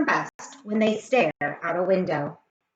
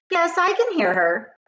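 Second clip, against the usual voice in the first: higher, bright pleased teacher voice; cheerful teacher; 8 semitones higher than usual. Acted. Missus Jewell approving her sleeping student. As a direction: sound delighted, not bothered.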